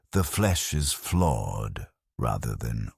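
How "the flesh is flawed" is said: slow, distant cold recital of a creed; lightly voiced old magos, measured and slow; Magos Deltrian. Narrator recalls the magos's words, slow and cold. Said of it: "He would have said".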